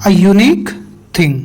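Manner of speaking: "A unique" read with A as a short "a" before the "yoo" of unique; model reading. Shown as a demonstration. Teacher models the answer for students, "A unique" said carefully. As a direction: model "A unique thing" clearly, A unstressed. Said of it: "तो ऐसे पढ़ेंगे".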